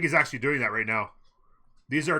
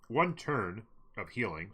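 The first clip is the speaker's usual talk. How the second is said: talking with his mouth full; 2 semitones lower, 5 dB quieter, slower than usual. Real, not acted. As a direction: speak through a mouthful of food. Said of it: "Sorry for talking with my mouth full".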